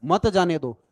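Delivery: मत joined to जाने दो after a break; pause before मत. Shown as a demonstration. Teacher showing the comma's effect, मत grouped with जाने दो. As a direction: start afresh on मत as a separate command. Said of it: "comma लगा दूं".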